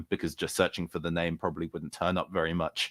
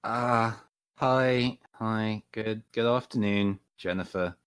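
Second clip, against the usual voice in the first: pointed greeting. Acted. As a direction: stress the first name, a bit cheeky. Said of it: "pointedly calling her by her first name".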